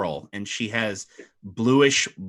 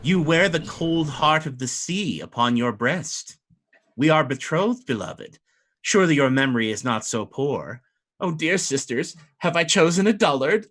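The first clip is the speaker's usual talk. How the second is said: lightly higher, mocking mermaid bride; teasing mermaid; 4 semitones higher than usual. Mermaid bride mocks her betrothed to her sisters, lightly higher. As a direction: tease him for forgetting her.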